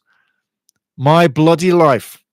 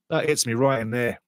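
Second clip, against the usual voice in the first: emotional; 4 semitones lower, 9 dB quieter than usual. Real, not acted. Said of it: "you can hear it in my voice".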